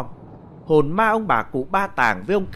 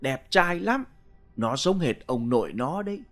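loud boasting; 3 dB quieter than usual. Acted. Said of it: "toang toác ra khoe".

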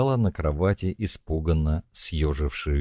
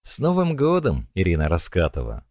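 festive shout; 4 dB louder than usual. Acted. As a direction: shout the greeting with cheer. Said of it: "крикнула Машка". (праздничный крик)

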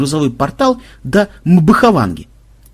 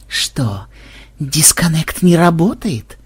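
mock sympathy; 3 semitones higher, slower than usual. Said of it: "посочувствовал Ксенобайт".

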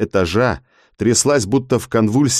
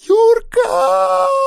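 piercing, far higher scream of a name; desperate scream. Acted. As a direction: scream his name in terror. Hana seized, screaming.

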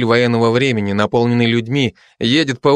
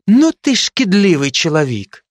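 higher huffy Ukrainian voice; Ukrainian accent; 6 semitones higher than usual. Acted. Ukrainian soldier scolding the Georgian, in a Ukrainian accent. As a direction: grumble at him in Ukrainian. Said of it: "каждый со своим акцентом".

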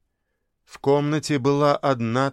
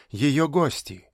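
ordinary delivery

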